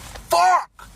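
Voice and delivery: high, loud "Fuck!" of dismay; loud outburst. Retold or imitated. Kid watching his champion lose, high dismayed yell. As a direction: blurt it out, yelling high. Reacting to a lost fight.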